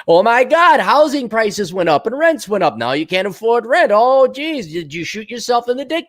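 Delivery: high, whining mock complaint; mock whiny millennial. Mocking millennials moaning about rent in a high whine.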